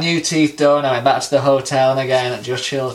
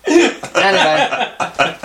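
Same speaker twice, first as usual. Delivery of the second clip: laughing; 12 semitones higher, 4 dB louder, much slower than usual. Real, not acted. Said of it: "laughing after the teeth joke".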